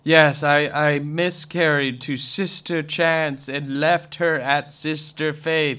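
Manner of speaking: slow, put-on solemn recital; mock pretentious. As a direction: imitate stilted arty dialogue. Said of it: "kind of pretentious on so much".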